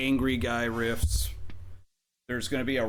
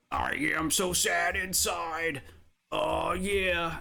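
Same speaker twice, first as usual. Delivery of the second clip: mock whisper; 5 semitones higher, slower than usual. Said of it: "a guy going".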